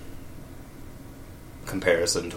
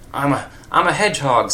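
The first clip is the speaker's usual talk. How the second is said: raised, higher indignant shout; 5 semitones higher, 4 dB louder than usual. A narrator's reading. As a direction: protest it loudly. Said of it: "shouted Sonic".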